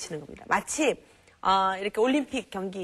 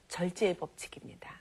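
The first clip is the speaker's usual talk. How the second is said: soft emphatic; 2 semitones lower, 5 dB quieter than usual. Shown as a demonstration. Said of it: "오늘 제가 가르쳐 드릴게요".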